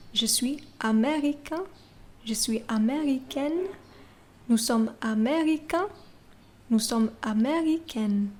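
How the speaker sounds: américain with nasal ending, américaine with audible n; careful teacher demo; French pronunciation. Shown as a demonstration. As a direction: contrast américain and américaine clearly. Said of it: "can you hear the tiny difference".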